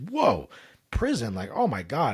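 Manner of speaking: put-on a kid shocked to hear "prison"; terrified child. Boy hearing the fireman's threat, high and startled. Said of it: "I was just terrified".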